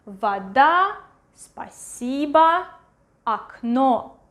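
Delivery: "Вода" va-DA, "спасибо" spa-SEE-ba, "окно" ak-NO; unstressed O as A. Shown as a demonstration. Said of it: "it will be pronounced as A".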